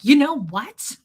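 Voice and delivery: spring into action, imitating him; suddenly animated. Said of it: "suddenly just, like, animated".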